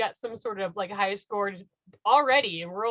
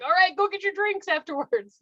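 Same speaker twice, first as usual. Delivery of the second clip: radio host friend; 9 semitones higher than usual. Retold or imitated. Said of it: "she's like".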